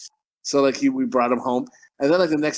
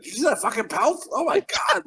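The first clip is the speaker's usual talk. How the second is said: high, amused imitation of a friend; mock laughing disbelief; 9 semitones higher than usual. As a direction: imitate someone cracking up in disbelief.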